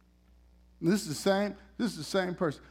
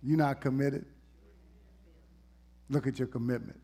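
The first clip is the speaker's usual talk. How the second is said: scolding preacher; 4 semitones lower than usual. Retold or imitated. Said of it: "the way a lot of preachers treat folks".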